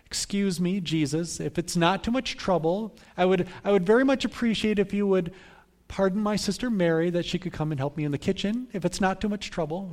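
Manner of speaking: mild imitation of a proper, polite guest; polite request. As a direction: ask as if not wanting to trouble anyone. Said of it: "politely ask something like".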